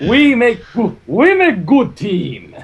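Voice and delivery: laughing through the words. Real, not acted. Friends joking about being a team, laughing. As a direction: giggle the line out slowly.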